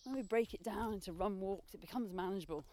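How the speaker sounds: talking mid-run; a bit breathless while running; while jogging. Real, not acted. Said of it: "time to run again".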